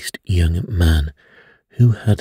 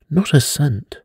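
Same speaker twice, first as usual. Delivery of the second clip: a pitched-up narrated shout of refusal; old man shouting; 8 semitones higher than usual. A narrator's reading. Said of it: "the old man shouted".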